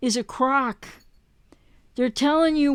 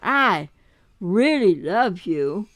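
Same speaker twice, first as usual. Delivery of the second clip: lower, slow fake tenderness; mock pleading; 4 semitones lower, slower than usual. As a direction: plead it like a manipulative ex. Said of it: "hoovering going".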